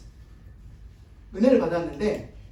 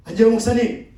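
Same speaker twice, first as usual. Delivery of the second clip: louder, indignant call to the pastor; huffy call; 6 dB louder than usual. Retold or imitated. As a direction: call out the pastor's name in a huff. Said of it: "씩씩거리면서 이야기를 하는 거". (화난 청년이 목사님을 부르는 씩씩거리는 외침)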